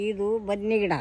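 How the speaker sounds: speaking up loudly. Shown as a demonstration. Grandmother told to speak up names the brinjal plant, loudly. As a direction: say it out loud and clear. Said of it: "ಜೋರಾಗಿ ಮಾತಾಡ್ಬೇಕು ನೀ".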